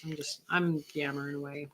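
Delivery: talking through a yawn; sleepy, mid-yawn speech. Real, not acted. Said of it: "You see me yawning".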